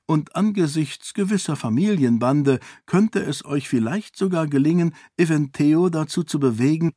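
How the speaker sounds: parry his threat with ease; calm defiant princess. Acted. Sarene pitches the deal. (gelassen herausfordernd)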